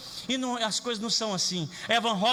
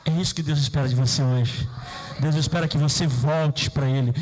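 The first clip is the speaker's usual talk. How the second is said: loud, low preaching cry, pushing from the chest; full-force pulpit call; preaching shout; 8 semitones lower, 5 dB louder than usual. Real, not acted. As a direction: thunder it at the congregation. Preacher's climactic exhortation.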